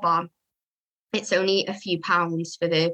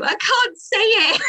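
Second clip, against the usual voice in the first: high, breaking into laughter; laughing at herself; 5 dB louder, slower than usual. Real, not acted. Groomer stumbling over a product name, laughing. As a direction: laugh off the tricky word.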